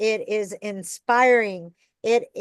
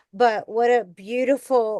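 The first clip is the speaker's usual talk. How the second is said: ordinary talk, nothing marked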